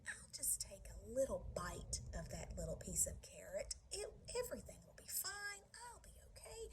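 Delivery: soft, rising self-persuasion; lightly voiced sneaky little one; little ghost reassuring himself.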